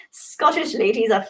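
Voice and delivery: put-on a light, tentative Scottish accent; Scottish accent attempt. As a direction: try a Scottish accent and give up. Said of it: "I can't do a Scottish accent".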